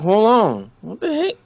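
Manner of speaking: rising startled disbelief; surprised. Retold or imitated. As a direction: ask it in high shock. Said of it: "I'm like".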